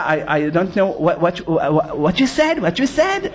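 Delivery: low, slow fake American accent; an Israeli pretending he knows no Hebrew, in a fake American accent. Israeli in Manhattan feigning no Hebrew, in a put-on American accent. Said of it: "הוא עושה".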